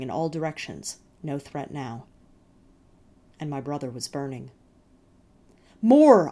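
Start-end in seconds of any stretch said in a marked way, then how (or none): 5.8-6.3 loud fierce shout, pitched up. Acted. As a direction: roar it out, hungry as fire. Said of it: "I shouted".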